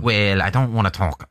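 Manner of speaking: put-on a slip into a Scouse accent for "Well, I don't wanna talk"; lightly Scouse, aiming for Welsh; Scouse accent creeping in; accidental Scouse. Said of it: "No, that's Scouse".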